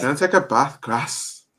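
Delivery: lightly imitated Leeds accent; short northern vowels, Leeds style. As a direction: say it as a Leeds local. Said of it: "I can do a Leeds accent".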